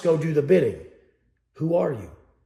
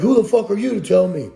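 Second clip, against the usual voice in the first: louder, defensive snap; imitating a hostile troll; mock angry commenter; 5 dB louder, faster than usual. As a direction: play the offended commenter. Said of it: "They're like".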